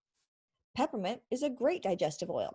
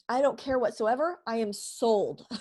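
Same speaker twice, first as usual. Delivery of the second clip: louder, slowing on I am sold; emphatic delight; 5 dB louder than usual. Retold or imitated. Mom won over by the oil, emphatic and delighted. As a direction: declare yourself convinced.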